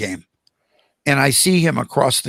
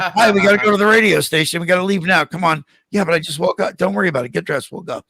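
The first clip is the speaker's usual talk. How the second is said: upbeat radio wake-up call; 4 semitones higher, 3 dB louder, faster than usual. Retold or imitated. Replaying his radio wake-up calls.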